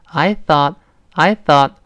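I thought slowly, th made with the tongue tip brushing the upper teeth. Shown as a demonstration. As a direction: say I thought with a clear th and open ah. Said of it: "舌尖伸出来点儿". (慢读I thought，th咬舌)

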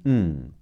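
hummed back-nasal ng; "嗯" made at the back of the nose; back nasal sound. Shown as a demonstration. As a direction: hold "嗯" as a nasal ng. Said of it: "N G 组合读后鼻音".

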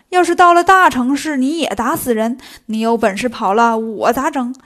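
a master's insistent telling-off; reproachful, punchy nagging; nagging scolding. Acted. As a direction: lecture the disciple point after point. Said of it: "现在见唐僧絮絮叨叨".

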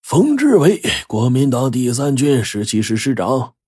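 high startled cry of recognition; startled exclamation running straight on; blurting out. A narrator's reading. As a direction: blurt out the name on a sudden high pitch. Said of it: "老少公脱口而出".

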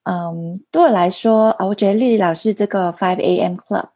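Mandarin with a non-native accent; halting Mandarin, foreign accent; foreigner speaking mandarin. Real, not acted. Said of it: "因为我中文不太好".

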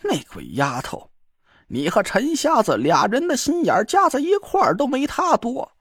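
squeezed out through gritted teeth. A narrator's reading. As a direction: force the words past a clenched jaw. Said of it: "他咬着牙挤出了几个字儿".

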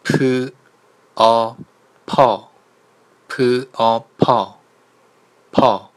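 loud 炮 with a strong puff; aspirated demo. Shown as a demonstration. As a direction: bark out 炮 on a burst of air. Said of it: "第二个呢是".

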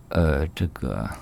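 hedging, halting non-answer; hesitant stammering. Acted. 柳梦梅 pressed by 春香 about the girl, hesitant. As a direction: stall awkwardly, unsure what to admit. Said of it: "别吞吞吐吐的".

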